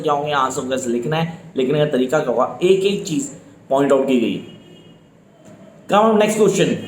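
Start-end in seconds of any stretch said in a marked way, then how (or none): none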